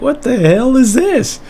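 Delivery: high, startled outcry; a kid's shocked what-the-hell. Retold or imitated. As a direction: blurt it out in disbelief. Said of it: "So I was like".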